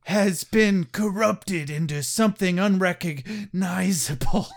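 hammed-up crying shout; mock dramatic wail. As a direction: wail it melodramatically. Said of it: "dramatic reading".

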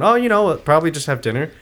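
a hint of Irish lilt; faint, accidental Irish accent; almost Irish accent. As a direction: slip slightly into Irish, then drop it. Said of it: "You almost said it in an Irish accent".

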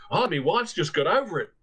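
put-on weary Australian accent, lightly done. Australian guest explains his wife's shock, light Australian accent. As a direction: say it like a shaken Australian husband. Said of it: "from the same Australian".

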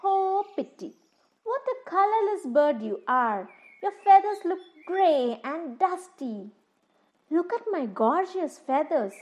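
high sneering put-down. Acted. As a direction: sneer down at a dull bird. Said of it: "He said to the crane with a sneer".

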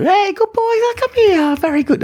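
very high falsetto puppy praise; girl voice. Shown as a demonstration. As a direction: coax the dog in an animated, high baby voice. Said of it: "to use that voice".

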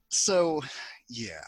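whisper. Real, not acted. Trailing off after a pitch.

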